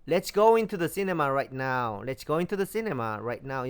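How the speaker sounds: very slow, deliberate English; teacher reads the English sentence slowly for learners; slow model reading. Shown as a demonstration. Spell out each word slowly. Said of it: "우리 영화관에 이제 빨리 들어가요".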